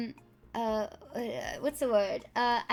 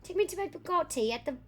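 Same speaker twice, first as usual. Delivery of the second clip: posh rich lady; 4 semitones higher than usual. Pretend. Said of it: "rich lady orders chauffeur".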